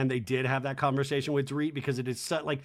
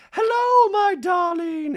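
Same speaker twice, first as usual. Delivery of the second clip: very high, loud drawn-out greeting; Dorit; 14 semitones higher, 9 dB louder, slower than usual. Retold or imitated. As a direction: gush it in a hammed-up falsetto. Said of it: "And she's like".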